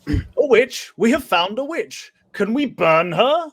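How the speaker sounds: high, loud, hammed-up peasant English accent; filthy English accent. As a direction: shriek it like a Monty Python villager with a crude English accent. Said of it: "give me your best filthy English accent".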